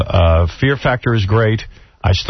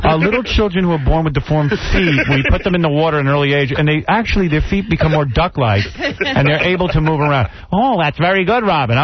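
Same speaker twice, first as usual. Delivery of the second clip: a hint of a game show host, higher; mock Regis; 3 semitones higher than usual. Pretend host reacts to the phony charity, lightly voiced. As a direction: play the host hamming it up.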